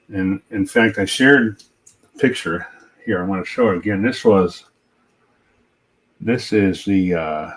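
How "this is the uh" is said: talking around a paintbrush in the mouth; words muffled by a brush between the teeth. Real, not acted. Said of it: "I got a paintbrush in my mouth".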